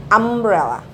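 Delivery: Umbrella said slowly with a clear open first vowel; pronounced umbrella. Shown as a demonstration. Teacher modelling Umbrella for students, clear and careful. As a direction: model the word Umbrella for the class. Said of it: "untuk pronunciation-nya A".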